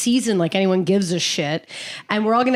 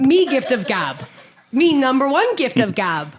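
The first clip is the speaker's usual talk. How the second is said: caveman voice; 3 semitones higher than usual. Pretend. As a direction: grunt it like a caveman. Caveman talk bit.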